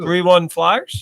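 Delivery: slow, loud sarcastic question. Pretend. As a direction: fake disbelief, drawn out. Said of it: "I'm being sarcastic".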